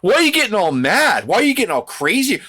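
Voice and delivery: very high-pitched feigned shock; mock alarm. Podcaster mimicking a bully faced with anger, mock alarm. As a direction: imitate a bully acting startled by the backlash, way up high. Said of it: "They're like".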